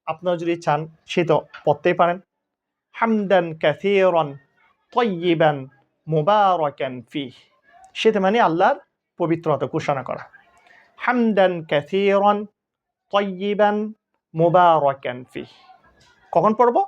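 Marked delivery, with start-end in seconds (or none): 2.9-7.3 slow, drawn-out Arabic recitation; prayer recitation. Shown as a demonstration. Teacher recites the prayer for students, slow and drawn out. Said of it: "এরপর একটা দোয়া আছে". 11.0-15.5 slow, drawn-out Arabic recitation; prayer recitation. Shown as a demonstration. Teacher recites the prayer for students, slow and drawn out. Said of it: "এরপর একটা দোয়া আছে".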